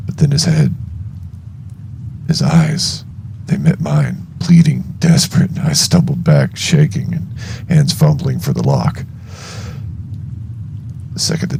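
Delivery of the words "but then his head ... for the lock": tense narration. A narrator's reading. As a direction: push the panic into the telling. Tense climax narration, louder.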